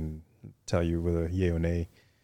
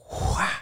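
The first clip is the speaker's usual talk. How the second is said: breathy whooshing boom by mouth; whooshed explosion sound effect; imitated blast. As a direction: mimic a missile rushing in and hitting. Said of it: "next you know, you hear".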